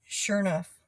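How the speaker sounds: "sure enough" run together as shore-nuff; Southern "sure enough", slurred to shore-nuff; Texas sure enough. Shown as a demonstration. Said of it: "another one is sure enough".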